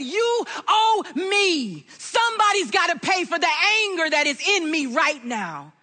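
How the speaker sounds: demanding payment. Retold or imitated. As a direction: lay down the verdict like a judge. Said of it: "and I said".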